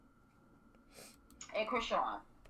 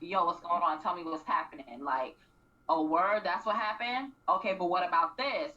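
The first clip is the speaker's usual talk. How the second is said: lower, easygoing casual voice; chill therapist; 5 semitones lower than usual. Retold or imitated. Imitating Doctor Ish talking casually to the couple, relaxed. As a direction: talk like a laid-back friend. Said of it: "speak on your level".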